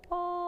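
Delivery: oh sung with a hard glottal attack. Shown as a demonstration. Choir director showing a glottal attack on oh. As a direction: start oh with a sharp catch in the throat. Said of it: "And that would sound like".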